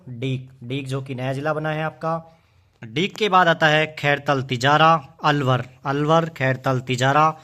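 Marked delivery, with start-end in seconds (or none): 2.8-7.4 louder, slower, hammering each name; emphatic teaching. Shown as a demonstration. Teacher stressing new district names to class, loud and slow. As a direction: drive the new names home.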